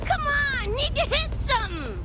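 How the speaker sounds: pumped up. Acted. Eager to fight, pumped up.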